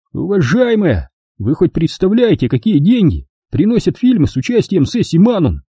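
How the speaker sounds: condescending. A narrator's reading. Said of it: "снисходительно усмехнулся Келли".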